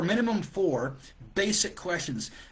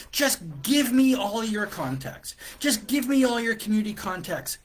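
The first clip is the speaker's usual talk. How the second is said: incredulous rant; 6 semitones higher, 3 dB louder than usual. Retold or imitated. Coach venting at the stranger's request, incredulous rant. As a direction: act out the indignant thought, half played. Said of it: "And I'm thinking".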